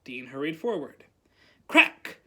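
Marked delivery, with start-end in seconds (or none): 1.7-2.2 loud burst on one word; explosive exclamation; sudden crack. A narrator's reading. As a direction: shout the word like a bang. Narrator voices the magical bang.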